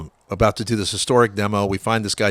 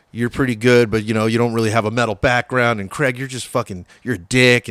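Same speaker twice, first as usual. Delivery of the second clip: mildly acted dressing-down, louder; retold berating; 2 semitones higher, 6 dB louder than usual. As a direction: imitate someone laying into the band, one by one. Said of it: "just berates each one of us".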